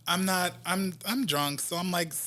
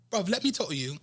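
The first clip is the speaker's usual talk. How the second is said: imitated English bloke's accent; 2 semitones higher, much faster than usual. English music star approaching a drunk singer, imitated English accent. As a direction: retell it in a casual English accent. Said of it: "you do a good accent".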